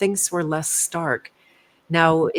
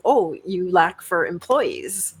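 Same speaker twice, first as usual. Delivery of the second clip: mock empathy; slower than usual. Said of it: "like, empathizing".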